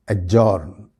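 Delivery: एडजॉर्न said "ajourn" with silent D; correct pronunciation. Shown as a demonstration. Teacher models एडजॉर्न with the D silent. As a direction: say एडजॉर्न with no D sound. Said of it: "नहीं बल्कि एडजॉर्न कहलाएगा".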